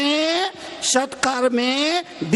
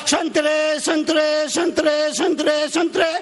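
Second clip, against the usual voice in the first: raised-pitch hawker's chant, evenly repeated; imitated vendor's call; 5 semitones higher than usual. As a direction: mimic an orange seller crying his wares. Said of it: "आवाज लगाता रहा". (फेरीवाले की नकल, ऊँची रट)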